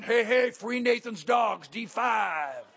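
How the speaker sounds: drawn-out call to the group. Acted. Servicemen rushing out for free food, calling out. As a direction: shout it slowly like a formation call.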